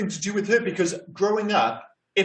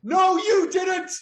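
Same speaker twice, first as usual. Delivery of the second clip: higher-pitched acted outrage, climbing as it goes; indignant outburst; 10 semitones higher than usual. Podcast host opens with an acted house-buyer's complaint, indignant. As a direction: build to an outraged yell. Acted opening quote, angry confrontation.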